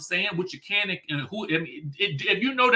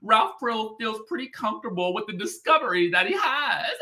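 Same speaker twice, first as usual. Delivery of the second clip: lightly voiced Courtney, higher, with giggles; a touch of giggly Courtney; 5 semitones higher than usual. Quoting Courtney's claims in a high, giggly imitation. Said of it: "She says".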